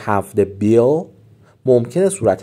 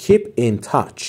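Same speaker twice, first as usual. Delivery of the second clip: slow model; much slower than usual. Shown as a demonstration.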